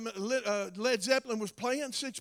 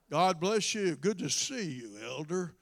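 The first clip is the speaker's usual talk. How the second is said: DJ voice; 3 semitones lower, slower than usual. Retold or imitated. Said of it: "they use that D J voice".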